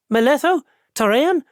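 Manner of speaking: calling two names across the room. A narrator's reading. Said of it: "then turned and called".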